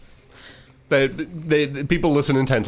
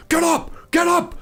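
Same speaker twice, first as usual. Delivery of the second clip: gruff yell. A narrator's reading. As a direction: yell them awake like a gruff soldier. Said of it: "you hear the gruff voice of Anders yelling".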